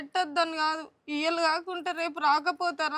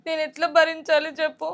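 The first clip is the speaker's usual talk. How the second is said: crying through the words; sobbing complaint. Acted. Wife to husband about her brother's words, sobbing. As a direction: sob out the hurt over her brother. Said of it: "ఎక్కి ఎక్కి మరి ఏడుతున్నావు".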